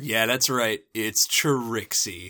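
lightly voiced show-off, slowing down; Trixie. Rival revealing herself to Twilight, drawn-out boast. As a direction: announce yourself proudly, stretching the name. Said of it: "Trixie, what are you doing here".

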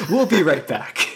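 high, drawn-out playful call; joking last words. Acted. Player repeats the joke to the table, slow high call.

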